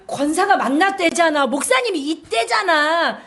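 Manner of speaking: hammed-up scolding of a doubter; mock exasperated rant; exasperated nagging. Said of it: "이게 아니신 것 같아요".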